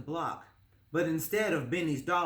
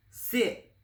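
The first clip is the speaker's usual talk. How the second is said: high, firm little command; boy orders his dog to sit, high and firm; 7 semitones higher, 3 dB louder than usual. Acted.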